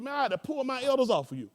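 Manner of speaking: high, loud, laughing mock-pompous overseer; pompous bishop. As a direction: puff up like the self-important overseer. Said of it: "He said".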